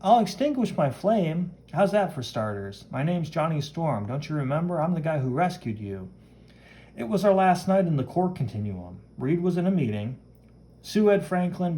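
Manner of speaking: lightly acted, animated storytelling; comic-book hero explaining. Hero reminds the woman he rescued her, lightly animated. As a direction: play an earnest hero recounting a rescue.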